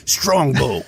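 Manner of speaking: put-on rough stab at an Irish accent; amateur Irish accent; attempted Irish accent. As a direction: lightly imitate an Irish drinker's accent. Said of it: "I wish I could do an Irish accent".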